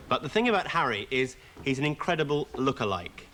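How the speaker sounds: smooth TV presenter introducing the next spot; show host intro. Acted. Host welcoming viewers to the interview spot, in a polished presenter voice.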